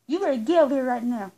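quick, lightly bossy demand; showing how others snap at Siri, half-hearted; mock mean voice. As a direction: imitate a mean scold, brisk. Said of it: "in a mean voice like y'all".

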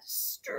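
"stretched" pulled out very long; "stretched" said in slow motion; drawn-out word. A narrator's reading. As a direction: stretch the vowel in "stretched" right out. Word drawn out to match meaning.

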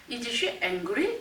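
slow, with angry rising at the end; rising question tune. Shown as a demonstration. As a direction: stretch out and lift angry. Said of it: "끝을 올렸기 때문에".

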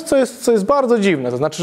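ordinary talk

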